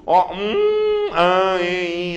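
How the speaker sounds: "um", "an", "en" pushed out through the nose; nasal vowels demo. Shown as a demonstration. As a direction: hum each nasal vowel clearly. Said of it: "Nasal é sair pelo nariz".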